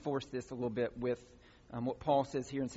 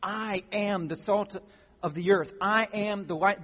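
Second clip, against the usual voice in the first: read as about yourself; 4 semitones higher, 5 dB louder than usual. Shown as a demonstration. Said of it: "read it to your".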